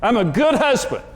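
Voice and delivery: half-yell it back at his wife in the car; mock-yelled insistence, a touch of the old fight; retold yelling. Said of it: "I was yelling at Karen".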